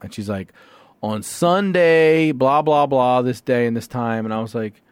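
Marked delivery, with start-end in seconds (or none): 1.0-4.2 mock officious clerk. Clerk reading ticket details to caller, mock officious. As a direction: reel it off like a dismissive clerk.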